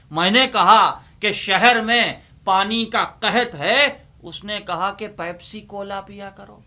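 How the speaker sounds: declaiming a ghazal couplet at a mushaira pace; poem recitation. Acted. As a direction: recite it to the audience, leaning on the punchline.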